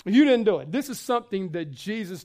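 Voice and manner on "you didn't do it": You didn't do it, louder and driven; preacher's punched repeat, much louder; emphatic repeat. Shown as a demonstration. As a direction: hammer the point home with force.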